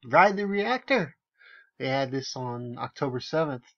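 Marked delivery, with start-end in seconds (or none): 0.1-1.2 mock announcement. Sarcastically repeats the tour name.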